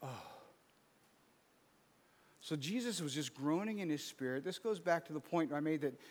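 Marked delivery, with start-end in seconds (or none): 0.0-0.2 short weary groan; demonstrated sigh of exhaustion; exhausted groan. Shown as a demonstration. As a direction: let out a worn-out "oh". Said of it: "so exhausted, you fell in".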